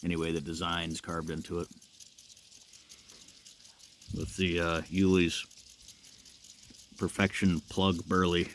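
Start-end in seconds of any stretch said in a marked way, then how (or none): 4.2-8.5 talking around a pipe stem; words muffled by a pipe in mouth. Real, not acted. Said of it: "I can't say that with the pipe in my mouth".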